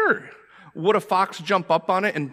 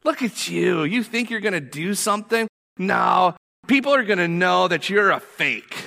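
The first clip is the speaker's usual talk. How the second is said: voice of the enemy; 4 semitones higher than usual. Acted. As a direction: sneer it out, rising at the end. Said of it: "Is it more like Sanballat?".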